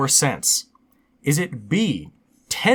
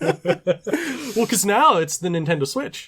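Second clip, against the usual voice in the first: laughing; 6 semitones higher, slower than usual. Real, not acted. Laughing over janitor answer.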